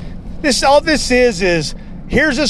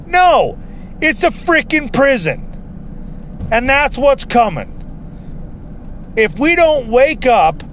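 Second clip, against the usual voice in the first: ranting; 2 semitones higher than usual. Real, not acted. Warning viewers about covid camps, in a worked-up rant. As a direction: rant it out, pitch pushed up. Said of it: "Sorry about the rant".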